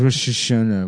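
Rosh Hashanah echoed as "rush-uh-SHUN-uh"; mimicked pronunciation. Needling his friend by echoing Rosh Hashanah as "rush-uh-shunna". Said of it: "Why do you have to say it like that?".

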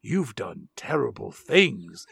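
doctor voice. Retold or imitated. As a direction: gently deny him, like a grave doctor. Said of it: "Doctor Loomis says".

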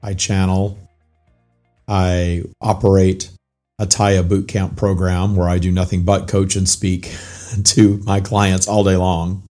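hoarse, raspy, barely-there voice; lost voice. Real, not acted. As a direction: talk through a voice that's nearly gone. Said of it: "I have no voice".

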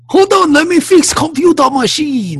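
hammed-up broken-English Asian accent; a loud mock Asian accent. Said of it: "horrible Oriental accent".

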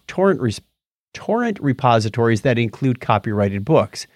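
reading an article aloud; steady reading-out voice; news read. Acted.

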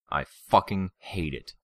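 slow, loud angry growl. Acted. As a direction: lean hard on the swear. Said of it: "Brian growled at the girl".

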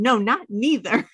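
put-on quick stubborn-kid retort; imitating toddler. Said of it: "That's how he says".

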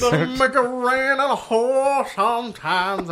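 slow, high, loud crooning line; hammed-up lover's croon; mock smooth talker. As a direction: ham up a smooth pickup line. Repeats his own crooned line.

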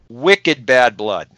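slow, broad Boston accent. Shown as a demonstration. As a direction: drawl it out in old Boston accent. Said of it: "use my old Boston accent".

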